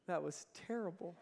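laughing mid-line at the weak answer. Real, not acted. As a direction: chuckle it out.

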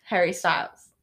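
wobbly put-on British; attempted British accent. Choosing whom to marry or kill, attempted British accent. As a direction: try to hold a British accent while answering. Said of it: "My accent".

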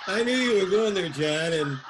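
laughing disbelief at the punchline; amused groan at a dirty joke. Real, not acted. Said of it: "we may have to edit that one out".

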